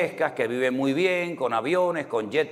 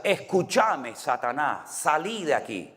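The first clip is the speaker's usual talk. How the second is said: put-on Argentine accent; 2 semitones higher, slower than usual. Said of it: "nosotros los españoles no decimos escúchame".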